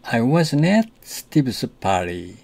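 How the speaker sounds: at lifted and stressed, slow and careful. Shown as a demonstration. Teacher models the sentence stressing at. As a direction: lean on at in I wasn't at Steve's party. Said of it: "그 강세가 at에 있다는 사실에 주목하십시오".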